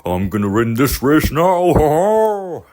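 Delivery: high toy-car voice, cackling at the end; gloating car voice. Acted. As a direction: crow about winning the race. Car gloating about winning.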